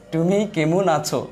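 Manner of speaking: "তুমি কেমন আছো" slowly, each word set apart. Shown as a demonstration. Teacher showing how we say it, word by word. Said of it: "এই যে আমরা এভাবে বলি".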